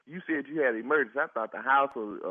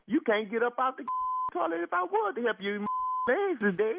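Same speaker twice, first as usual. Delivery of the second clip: 1 laughing; 7 semitones higher than usual. Real, not acted. Mocking the numb caller.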